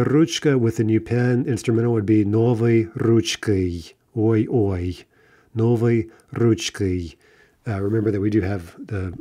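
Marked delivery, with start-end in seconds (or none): 2.2-3.9 ручкой with its unstressed ending reduced; vowel reduction. Shown as a demonstration. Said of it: "vowel reduction here for unstressed o's". 5.5-7.1 slow Новой ручкой, unstressed o's reduced; vowel reduction. Shown as a demonstration. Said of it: "vowel reduction here for unstressed o's".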